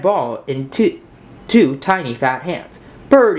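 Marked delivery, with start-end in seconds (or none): 3.1-3.4 put-on high, loud little-boy call; excited baby shout; toddler calling out. A narrator's reading. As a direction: call to the bird like a small child. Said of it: "he called out to a pigeon".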